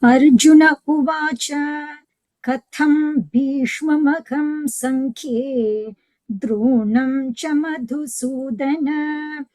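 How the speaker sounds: slow, measured verse chanting; steady scriptural chant; Sanskrit recitation. Acted.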